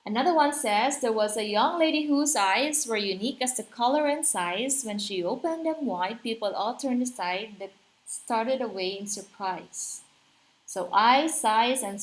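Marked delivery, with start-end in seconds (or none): 1.0-10.0 lilting verse recital; limerick reading. Shown as a demonstration. Teacher reading another limerick as an example, rhythmic and lilting. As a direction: read it out in bouncing anapest rhythm.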